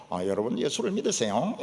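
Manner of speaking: 힘 빠진 점잖은 서울 말씨 설교 흉내; 기운 없이 권하듯 말해라; 밋밋한 서울식 설교 흉내. Retold or imitated. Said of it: "이게 뭐 설교도 아니고". (은혜 안 되는 서울 목사 흉내)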